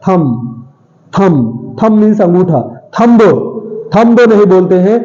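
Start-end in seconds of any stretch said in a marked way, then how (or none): 0.1-1.8 थंब said slowly and low, b barely heard; slow soft demo. Shown as a demonstration. Teacher showing students the faint b in थंब. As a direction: stretch out थंब softly, faint b. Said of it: "स्पष्ट बा का sound नहीं निकलता है".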